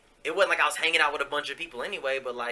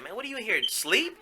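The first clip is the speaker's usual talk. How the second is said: high-pitched retelling; 9 semitones higher than usual. Retold or imitated. Pops retold checking on him.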